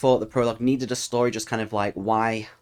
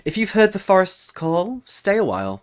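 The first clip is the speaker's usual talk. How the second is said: ominous trailer-style call to subscribe; dramatic sign-off. A narrator's reading. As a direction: end with a brooding announcer flourish. Channel sign-off in story voice.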